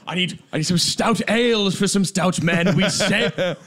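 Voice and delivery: a hammy colonel-style Pierre impression. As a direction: boom out orders for stout men and ships. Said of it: "were just doing Pierre voice".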